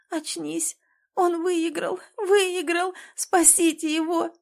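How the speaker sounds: high, rising calls for help; frantic high cries at the ring; desperate cry. A narrator's reading. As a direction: shout for someone to save him. Screams at fallen boyfriend.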